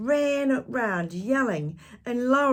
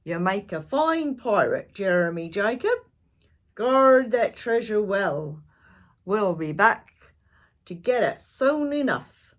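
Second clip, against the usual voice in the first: pirate captain; 2 semitones higher, 8 dB louder than usual. A narrator's reading. Braidbeard praising the boy before sailing, loud hearty. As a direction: boom it like a proud captain. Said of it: "Braidbeard handed me a flag and said".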